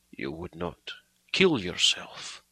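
slow hoarse question. Acted. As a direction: ask it hoarsely, shaken. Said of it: "he asked hoarsely".

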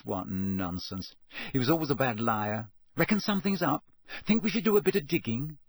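lightly voiced gossipy journalist, brisk; a hint of a scheming reporter; Rita Skeeter.

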